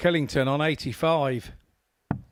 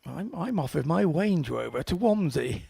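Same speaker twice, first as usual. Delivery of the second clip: plummy toff off for the day; light posh put-on. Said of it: "in a posh voice".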